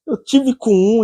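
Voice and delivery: ordinary delivery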